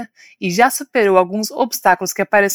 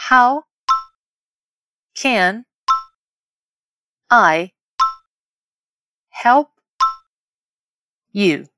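"How", "can", "I", "help", "you" each alone with long pauses; word by word; much slower than usual. Shown as a demonstration. Teacher leading learners to repeat aloud, word by word. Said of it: "Vamos repetir em voz alta?".

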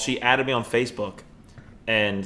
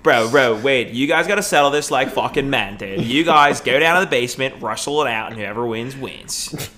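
frat bro. Retold or imitated. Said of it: "Wade does sound like a frat bro".

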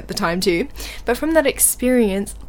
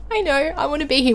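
higher-pitched mock-tearful plea; retold near tears; 6 semitones higher than usual. Stressed learner rider answering the instructor, retold near tears. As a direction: lightly imitate being on the verge of tears. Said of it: "tears almost streaming down my face".

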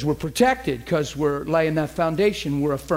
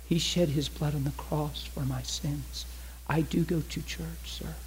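softer, slow and drugged-sounding; sedated; 6 dB quieter than usual. Retold or imitated. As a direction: murmur it like a heavily medicated woman. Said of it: "She's talking real sedated".

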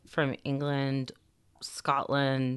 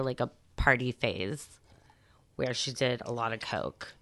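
gossipy whisper; 4 semitones lower, 5 dB quieter than usual. Real, not acted. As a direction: whisper the juicy part. Gossiping about a chef's coke use.

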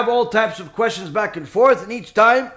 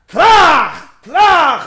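staff strike sound; 6 semitones higher, 10 dB louder than usual. Retold or imitated. Staff strikes the two heads.

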